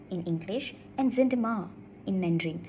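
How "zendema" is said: "Zendema" with a lifted last syllable; rising at the end. Shown as a demonstration. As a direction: raise the end of "Zendema" as a question. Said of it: "Both rise at the end".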